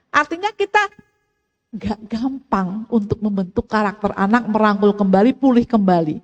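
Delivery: usual speaking voice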